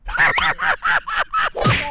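loud, drawn-out, slow angry yell; annoyed shout. Real, not acted. Stranger in the park yelling at the loud phone talker. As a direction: drag out each word in exasperation.

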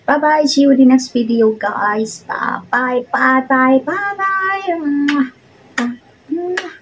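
high, sing-song bye-byes; chirpy farewell with kisses; cutesy high goodbye. Real, not acted.

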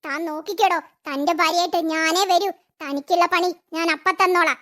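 low, menacing vow to herself; a spurned woman plotting payback; vengeful aside. Acted. Vengeful threat after leaving.

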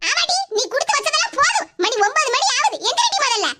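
acted sharp wake-up scolding; nagging, impatient mother-in-law. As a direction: order the lazy daughter-in-law out of bed. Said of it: "மாமியார் குரல் என்ன வித்தியாசமா கேக்கு".

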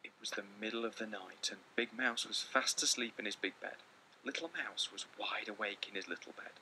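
steady read-aloud voice for the class; story narration. A narrator's reading. Teacher reading a picture book to her class, storytelling voice. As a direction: read the story calmly to children.

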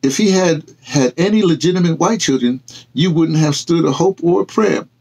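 a touch of stern reproach. Acted. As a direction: drive the hard truth home. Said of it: "Tyler said sternly".

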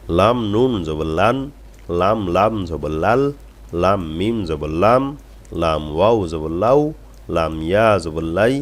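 slow, swelling letter-by-letter drill on lam; model recitation. Shown as a demonstration. Teacher reading the next line for students, slow drawn-out recitation. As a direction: draw out each লাম, finish on a long লা. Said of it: "এরপরের line দেখুন লাম দিয়ে".

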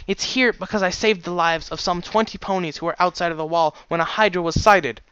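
indignant argument. Acted. Daughter argues back at her father.

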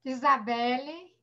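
drawn-out rising call; slow call across the room, waiting for an answer; calling out a name. Real, not acted. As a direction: stretch the name out, asking.

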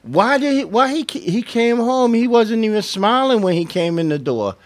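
a wife fretting that her husband didn't smile; acted worried wife. Wife worrying about husband's mood.

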